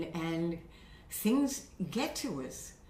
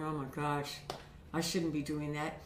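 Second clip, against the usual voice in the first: self-reproach; 6 semitones lower, 7 dB quieter than usual. Retold or imitated. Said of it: "and I'm going".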